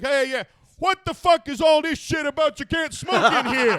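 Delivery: half-laughing imitation of a brash comic; Dice rant. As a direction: bark it like an entitled star. Quoting Dice's rant.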